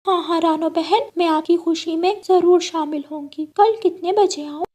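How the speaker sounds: high, cheerful bird voice; parrot friend voice. Acted. Hariyali answering Rano's invitation, high cheerful voice. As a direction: chirp back eagerly.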